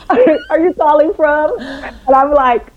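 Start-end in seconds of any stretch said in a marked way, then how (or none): 0.0-1.6 puzzled question. Retold or imitated. Retold puzzled producer question.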